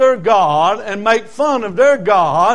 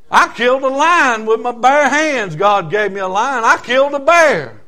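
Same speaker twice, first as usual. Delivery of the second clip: higher-pitched, cocky preaching energy; boastful young David; 4 semitones higher, 3 dB louder than usual. Acted. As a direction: act out an eager boy itching to fight. Boy David boasts he'll fight.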